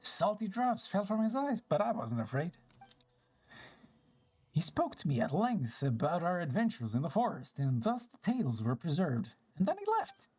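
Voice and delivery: put-on an elder spirit recalling old times; lightly acted storybook character reminiscing; lightly voiced old forest spirit.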